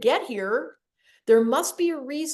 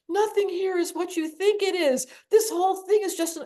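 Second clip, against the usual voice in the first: much higher and louder, bursting with wonder; awed excitement; 8 semitones higher, 4 dB louder than usual. Retold or imitated. Teenager telling the dentist after her vision, high awed excitement. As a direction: blurt out a cosmic revelation in awe. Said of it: "And I was like".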